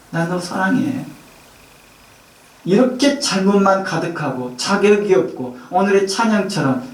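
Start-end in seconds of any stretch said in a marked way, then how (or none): 0.1-1.0 a soft, hushed "I love you" from the Lord; Jesus speaking tenderly. Acted. Pastor voicing Jesus to the Laodicean church, soft and tender. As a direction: say it gently, close to the ear. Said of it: "사랑한다라고 표현합니다".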